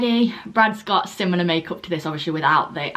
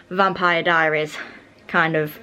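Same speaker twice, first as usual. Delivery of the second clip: out of breath; 2 semitones lower, slower than usual. Real, not acted. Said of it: "sorry, I'm out of breath".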